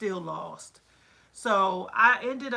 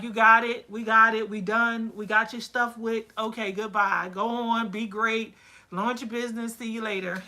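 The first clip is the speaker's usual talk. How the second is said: cheerful send-off; 3 dB louder than usual. Retold or imitated. Sending a finished client off.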